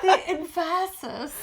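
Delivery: emphasis as em-FASS-is, high and drawn out; mock wrong stress. Co-host mocking the joke, emphasis as slow, high em-FASS-is. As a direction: echo emphasis slowly and high, hitting FASS. Echoing the co-host's joke mispronunciation.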